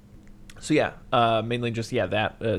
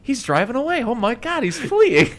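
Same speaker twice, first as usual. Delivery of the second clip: much higher, louder, frantic alarm; mock panicked squeal; 13 semitones higher, 9 dB louder than usual. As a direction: panic like a flustered clerk. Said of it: "Francis McDonald's like".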